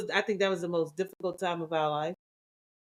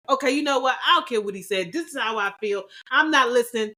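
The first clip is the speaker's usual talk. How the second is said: defiant refusal; 4 semitones higher, 4 dB louder, faster than usual. Retold or imitated.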